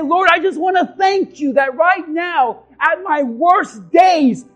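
loud, slow pleading prayer; rising shouted prayer; fervent prayer. Pretend. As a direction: cry out to God in thanks.

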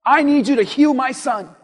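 tell, don't ask, in imitation; mock demand. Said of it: "just tells him".

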